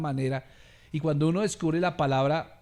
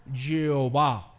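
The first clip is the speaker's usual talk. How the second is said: Jehová stretched out slowly, each syllable drawn long; 3 semitones lower, much slower than usual. Shown as a demonstration. Preacher drawing out Jehová slowly for the congregation. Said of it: "¿Se me entiende?".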